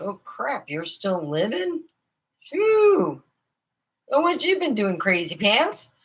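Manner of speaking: mock surprise. I'm like, bumping into mama's friend.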